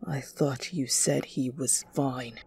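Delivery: low, very soft mutter; hushed, low accusation from a father. Acted. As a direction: mutter it darkly under your breath. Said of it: "Until Kon muttered".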